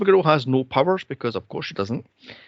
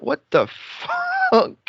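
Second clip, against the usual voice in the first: laughing what the fuck. Retold or imitated. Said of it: "I'm like".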